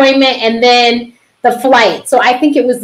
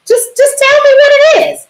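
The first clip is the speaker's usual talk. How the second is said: pleading; 14 semitones higher than usual. Retold or imitated. Pleading with the nurse on phone.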